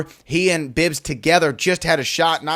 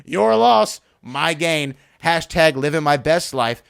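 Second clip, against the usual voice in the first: higher, self-satisfied boast; mock gloat at the ex, a bit higher and slower; smug gloating; 4 semitones higher, much slower than usual. Newly single guy gloating about his new girl. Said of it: "in your head, you're like".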